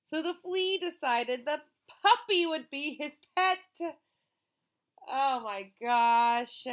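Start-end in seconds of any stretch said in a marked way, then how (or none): 5.1-6.7 amazed gasp. Real, not acted.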